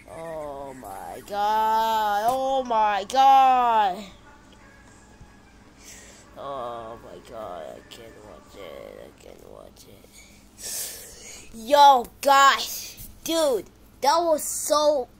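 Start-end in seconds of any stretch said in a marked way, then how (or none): 0.1-4.0 very slow, stretched oh my god, growing louder; drawn-out disbelief. Real, not acted. Horrified at the game. 6.4-11.5 sinking much lower and softer to a whisper; cringing fade-out. Real, not acted. Can't bear watching.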